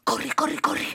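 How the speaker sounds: high, hurried urging; urgent running cry. Acted. Housewife rushes home. (grido concitato e acuto)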